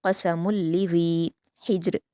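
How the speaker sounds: slow, melodic Quranic recitation; measured Quran recitation; tajweed recitation. Shown as a demonstration. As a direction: recite it slowly and carefully as a model for students. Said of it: "मीम की तनवीन को लाम से मिलाकर पढ़ेंगे".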